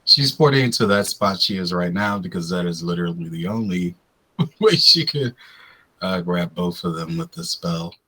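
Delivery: raspy, sick-sounding voice; talking through a sore throat; hoarse voice. Real, not acted. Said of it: "I sound like a chain smoker".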